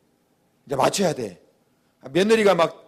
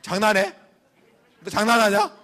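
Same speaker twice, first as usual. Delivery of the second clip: higher, laughing disbelief; mock exasperated; 4 semitones higher than usual. Father fed up with the son's crying, mock exasperation. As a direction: tease with fake annoyance. Father annoyed at repeated apology.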